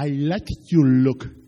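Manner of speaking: slow, drawn-out flirty line in English; mock flirty English. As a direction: lay on the charm, slowly. Husband flirting with coworker, in English.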